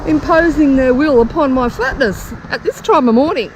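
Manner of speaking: very high, indignant mock outrage; shrill, hammed-up indignation; outraged inner voice. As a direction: squeak it out, scandalised. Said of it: "I'm thinking".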